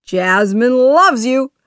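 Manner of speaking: loud, high, gleeful; happy exclamation. A narrator's reading. Genie sharing good news with Aladdin, happy exclamation. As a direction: exclaim it with delight. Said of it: "the genie said happily to Aladdin".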